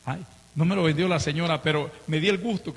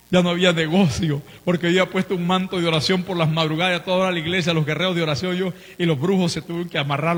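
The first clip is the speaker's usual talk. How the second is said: fervent preaching; 4 dB louder than usual. Acted. Preaching with rising force.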